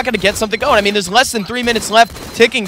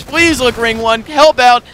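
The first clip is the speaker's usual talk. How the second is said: drawn-out pleading call, rising louder; imitated yelling; 4 semitones higher, 3 dB louder, slower than usual. Commentator voices player pleading with his teammates, imitated yell. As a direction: mimic a player calling urgently for backup. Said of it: "just yelling at his teammates".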